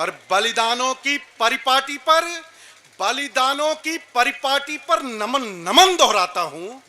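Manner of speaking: measured verse with suspended endings; poetry recitation. Acted. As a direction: pay homage in stately recited phrases. (श्रद्धा भरा काव्य पाठ)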